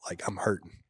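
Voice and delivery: hoarse whisper, like every word costs effort; pained whisper. Retold or imitated. Soldier tells friends how spent he was, in a pained whisper. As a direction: whisper it as if worn out and hurting. Exhausted soldier recalls cramping pain.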